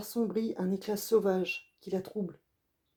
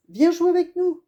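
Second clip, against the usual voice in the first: much higher, louder call across the street; shouting; 11 semitones higher, 10 dB louder than usual. Acted. Child playing football calls the boy over, loud shout. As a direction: call him over to play. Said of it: "crie-t-il".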